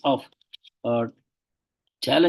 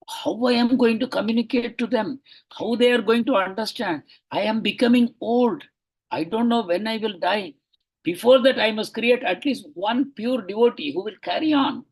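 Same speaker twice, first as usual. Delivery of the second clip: voicing the teacher's anxious plea, higher; retold urgent worry, pitched up; anxious urgency; 6 semitones higher than usual. Lecturer voices an ageing guru's fear for his mission, anxious urgency. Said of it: "there is anxiety".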